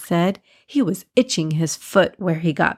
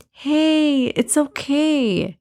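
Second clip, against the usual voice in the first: higher, drawn-out reassurance; comforting; 7 semitones higher, much slower than usual. A narrator's reading. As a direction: gently reassure a worried friend, slowly. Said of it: "looked at him and comforted him".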